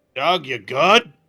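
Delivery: loud calling voice. A player's character magically amplifies their voice to call to another character, speaking loudly. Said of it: "just speak loudly and say".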